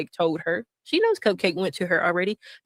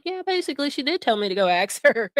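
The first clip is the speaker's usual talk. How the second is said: mocking imitation; 3 semitones higher than usual. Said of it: "She's pushing the, like".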